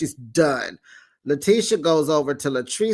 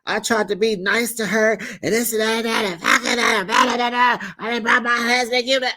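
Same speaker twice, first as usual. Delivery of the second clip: mock rant; 6 semitones higher, faster than usual. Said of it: "talking about".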